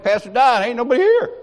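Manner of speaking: high, loud retold alarm; alarmed calling. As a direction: act out an urgent report to the pastor. Acting out panicked phone call.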